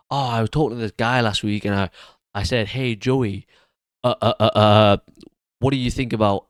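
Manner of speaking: mock stutter, groping for the next line; Robert De Niro stammering. Reviewer mimicking an actor forgetting his lines, stammering. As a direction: lightly imitate an actor losing his lines. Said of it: "stutters, he mumbles".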